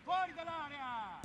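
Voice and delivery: drawn-out shouted order; loud slow command. Real, not acted. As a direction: call it out slowly and loudly across the pitch. Allenatore ordina di uscire dall'area. (ordine urlato e lento)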